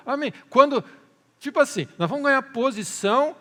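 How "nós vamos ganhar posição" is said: high, loud mock excitement; acting out greedy eagerness, voice raised; eager crowd, imitated. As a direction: call it out like people chasing a prize. Acted crowd eager for reward.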